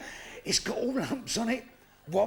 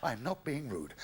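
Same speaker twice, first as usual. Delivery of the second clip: coaxing; 5 semitones lower, 5 dB quieter than usual. Acted. Golf pro coaxing a pupil.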